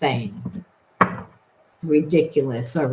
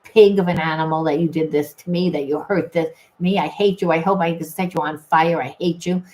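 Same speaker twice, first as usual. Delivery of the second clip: mock hateful rant; 2 semitones higher than usual. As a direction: spit it out like you hate them. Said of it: "really getting pissed off and hating this person".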